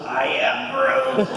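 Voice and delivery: put-on high, slow, breathy little-kid Groot; small child in a Groot costume, slow high voice; imitating little girl as Groot. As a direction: coo it like a tiny child in costume. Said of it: "And she goes".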